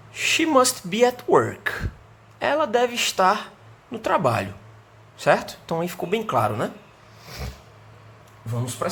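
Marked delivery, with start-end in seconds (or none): 0.1-4.5 slow model answer. Shown as a demonstration. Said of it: "alguém me perguntou".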